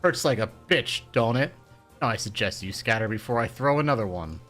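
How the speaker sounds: put-on loud, furious old woman; thick with rage. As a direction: bark threats at the bullies. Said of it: "in a voice thick with rage".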